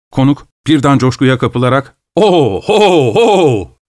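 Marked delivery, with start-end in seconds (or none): 2.2-3.8 excited shout. Acted. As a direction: shout it out in sudden joy. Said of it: "diye bağırdı".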